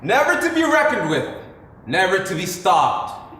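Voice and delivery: hammed-up royal decree; grand proclamation. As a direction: announce him like a king's herald. Grandiose announcement of brother's greatness.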